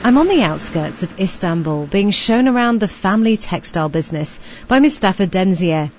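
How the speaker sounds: measured radio reporter's voice; polished, scripted presenter delivery; scripted report narration. Acted.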